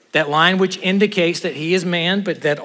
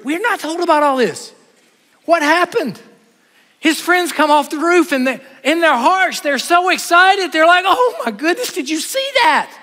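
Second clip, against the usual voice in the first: high, laughing excitement; excited friends; 9 semitones higher than usual. Acted. Friends on the roof cheering the miracle, high and laughing. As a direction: bubble over with joy.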